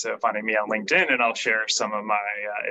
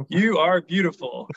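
robotic voice; 7 semitones higher, 5 dB louder than usual. Retold or imitated. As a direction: read it like a stiff machine. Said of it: "read it in a very robotic voice".

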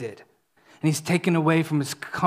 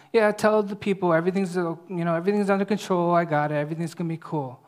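mock offhand; faster than usual. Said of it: "God is not just robotically telling Isaiah".

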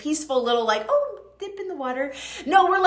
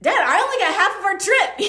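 higher, laughing through the words; laughing protest; 7 semitones higher, 4 dB louder than usual. Retold or imitated. Telling her dad she wants to go again, laughing higher protest. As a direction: giggle while pleading for a second go. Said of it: "I'm like".

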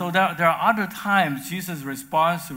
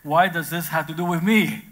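firm exclamation; 3 semitones higher, 6 dB louder than usual. Acted. Pastor voicing Jesus answering his mother, loud and firm. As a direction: push back on her request with force. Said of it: "And Jesus says".

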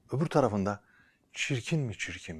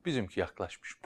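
ordinary delivery, nothing marked

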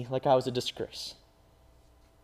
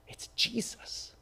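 slow hushed whisper; 9 semitones higher, 9 dB quieter, much slower than usual. Acted. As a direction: breathe the name slowly.

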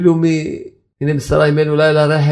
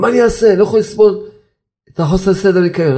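lightly acted protest, pitched up; imitated husband's complaint; 4 semitones higher than usual. Husband complaining to rabbi about the mess, mock protest. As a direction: mimic an exasperated husband.

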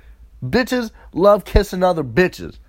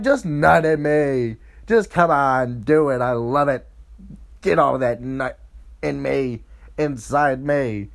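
coaxing plea; 3 semitones lower than usual. Retold or imitated. Women urging Cam on at the orgy, seductive coaxing. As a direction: coax him in a low, sultry come-on.

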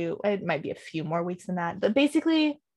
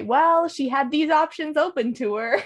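laughing through the words; 7 semitones higher, 4 dB louder than usual. Retold or imitated. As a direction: giggle while saying it. Quoting herself, laughing.

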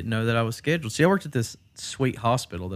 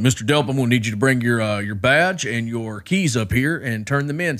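louder, stern demand; stern boss; 6 dB louder than usual. Retold or imitated. Boss demanding Travis return his badge, stern and louder. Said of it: "They're like".

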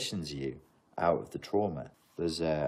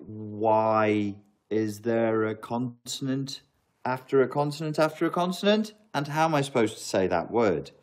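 exasperated confusion; 4 semitones higher, 4 dB louder than usual. Retold or imitated. Retelling reading Russian on Google Translate, mock exasperated and louder. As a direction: act baffled by piled-up consonants. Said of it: "and I'm like".

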